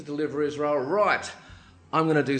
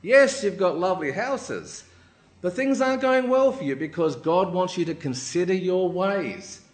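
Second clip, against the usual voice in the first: prophetic proclamation; 4 semitones higher, 4 dB louder than usual. Acted. Haggai gives God's message to the people, proclaiming. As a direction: pronounce it weightily to the crowd. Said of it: "he gives a message from God".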